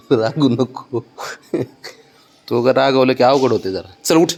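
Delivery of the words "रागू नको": रागू नको stretched slowly with a laugh; slow, chuckling रागू नको; laughing plea. Real, not acted. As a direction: tease him gently out of sulking. Soothing a sulking child.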